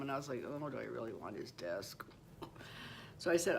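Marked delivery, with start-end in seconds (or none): 0.5-2.0 much lower and softer, hesitant; doubtful inner thought. Retold or imitated. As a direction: mutter it to yourself, unsure. Inner thought about dead man's desk.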